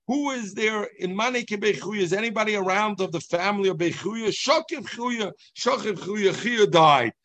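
town crier calling out. Retold or imitated. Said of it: "this guy came and he said".

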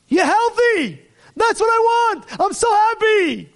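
high, loud burst of joy; father overjoyed his son is alive; joyful outburst. Acted. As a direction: shout it with relief and delight.

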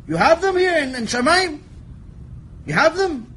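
rising incredulous taunt; mock challenge. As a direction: needle the angels with disbelief.

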